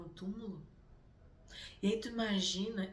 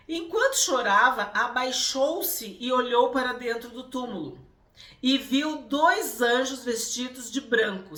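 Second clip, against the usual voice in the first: scripture reading; 4 semitones higher, 9 dB louder than usual. Acted. Reads the Gospel passage aloud.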